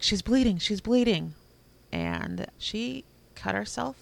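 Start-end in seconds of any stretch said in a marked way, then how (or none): 0.0-1.3 retold alarm. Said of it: "Phil's like".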